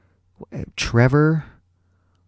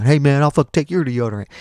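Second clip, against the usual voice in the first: joking classmate; 4 semitones higher, 4 dB louder than usual. Retold or imitated. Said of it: "he started making jokes like".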